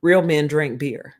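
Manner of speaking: a lightly voiced father talking his son into it; swaggering dad. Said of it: "He's like".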